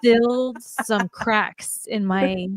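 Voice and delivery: real emotion, slowing over the words; getting emotional. Real, not acted. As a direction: thank them while starting to well up. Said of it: "Don't you dare get emotional".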